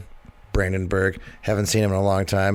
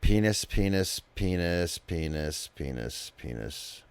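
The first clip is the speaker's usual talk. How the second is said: robot voice; 4 semitones lower, 7 dB quieter, slower than usual. Pretend. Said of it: "I feel like I'm, uh, have, like, a ro-, robot voice".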